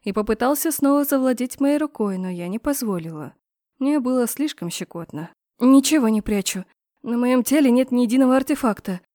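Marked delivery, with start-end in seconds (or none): 5.6-9.0 rattling off. Acted. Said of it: "затараторила я".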